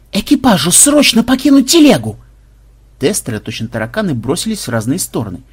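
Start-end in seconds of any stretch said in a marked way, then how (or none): 0.1-2.2 high-pitched shouted order; alarmed crew-commander shout; urgent command. A narrator's reading. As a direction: yell the evacuation order. Urgent order under cannon threat.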